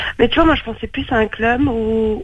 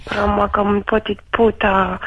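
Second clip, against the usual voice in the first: put-on slow, tentative Italian accent; drawn-out mock-Italian accent; slower than usual. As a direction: try an Italian accent on request. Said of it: "que tu me parles avec l'accent".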